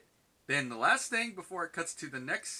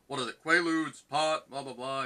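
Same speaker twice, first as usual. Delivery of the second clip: mock lecturing principal, louder on Quaaludes; droning principal; 3 semitones higher, 8 dB louder than usual. Principal lecturing Elliot in his office, mock droning. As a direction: rattle off a tired, clichéd scolding. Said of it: "principal starts droning on and on".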